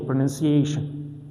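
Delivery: Pronunciation with a stressed AY before the last syllable; Pronunciation as pro-nun-ci-AY-shun, demonstrating the stress. Shown as a demonstration. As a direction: stretch the A of Pronunciation slightly. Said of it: "My stress is on A".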